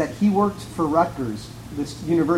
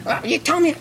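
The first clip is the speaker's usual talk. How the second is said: retold yell; 11 semitones higher than usual. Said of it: "She started yelling up and down".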